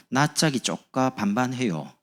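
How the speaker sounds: slow Jeolla drawl; 느린 전라도 사투리; Jeolla dialect. Shown as a demonstration. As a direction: lean into the Jeolla vowels, slowly. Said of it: "전라도 사투리".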